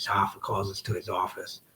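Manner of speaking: ordinary talk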